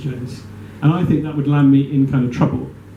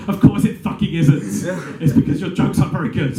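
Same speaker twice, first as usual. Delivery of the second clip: raised-pitch, irritated retort; angry; 4 semitones higher than usual. Acted. Hairdresser scolds the comedian over his jokes, mildly angry. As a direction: snap back with a touch of anger. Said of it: "she was angry".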